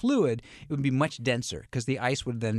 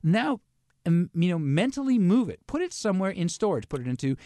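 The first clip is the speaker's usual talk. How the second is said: guiding instructor; 4 semitones higher than usual. Retold or imitated. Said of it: "So what he says is".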